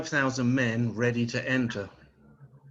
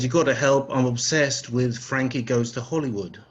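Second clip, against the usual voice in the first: dad's loud demand; 4 dB louder than usual. Retold or imitated. Voicing his dad's demand.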